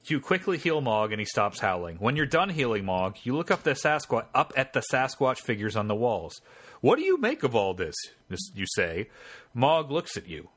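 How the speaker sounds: measured game-master narration; story narration. A narrator's reading. Game master reading the scene to the player, story narration. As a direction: read the adventure text out as story.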